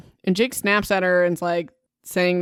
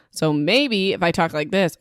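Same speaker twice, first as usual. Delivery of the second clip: slightly raised mic-test voice; louder mic check. Shown as a demonstration. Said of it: "oh, that went really loud though".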